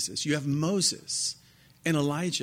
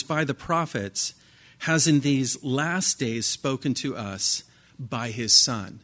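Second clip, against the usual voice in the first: scripture reading. Acted. Reading Hebrews aloud.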